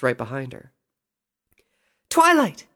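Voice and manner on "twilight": high, loud call to a friend; shouting. A narrator's reading. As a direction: shout the name out joyfully from afar. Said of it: "she shouted".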